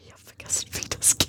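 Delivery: whispered confession; whispering. Real, not acted. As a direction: whisper it back. Whispered reply.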